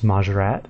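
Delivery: "Majorat" with a strong final T; correct way. Shown as a demonstration. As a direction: say "Majorat" hitting the last T hard. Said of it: "more emphasis on the T at the end".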